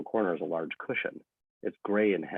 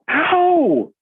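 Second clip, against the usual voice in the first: sharp ow; 9 dB louder than usual. Acted. RJ yelps at the needle.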